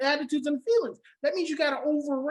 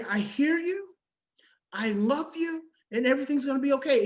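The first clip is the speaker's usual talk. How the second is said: reassuring script. Shown as a demonstration.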